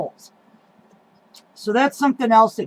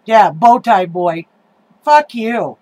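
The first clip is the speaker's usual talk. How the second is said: angry; 4 dB louder, slower than usual. Real, not acted. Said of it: "I get so mad".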